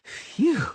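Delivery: high, loud sigh of relief; relieved phew. Acted. Dandelion sighs with relief after catching his lute. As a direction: blow out the relief. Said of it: "sighed the bard".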